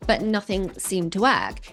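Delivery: measured storytelling promo read; earnest narration introducing a guest's health story; dramatic voice-over. Acted. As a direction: read it like a documentary teaser, drawing the listener in.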